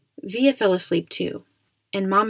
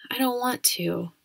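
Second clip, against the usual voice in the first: put-on slightly higher, a touch babyish and whiny; a little babyish; 4 semitones higher, 4 dB quieter than usual. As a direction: play it like a small kid sulking, lightly. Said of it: "I made my voice sound a little babyish".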